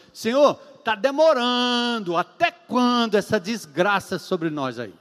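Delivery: drawn-out, slow protest in prayer; complaining to God. Acted. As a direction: argue slowly with God, acted out. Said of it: "brigando com Deus em oração". (reclamando com Deus, arrastado)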